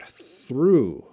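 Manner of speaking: THROUGH said slowly and clearly, voice falling; "Through" as one long, careful syllable; clear pronunciation demo. Shown as a demonstration. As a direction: model the word "Through" for a learner. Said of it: "through is too hard".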